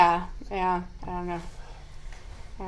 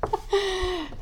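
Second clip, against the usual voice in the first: laughing; 9 semitones higher, 9 dB louder than usual. Real, not acted. Laughing while asking.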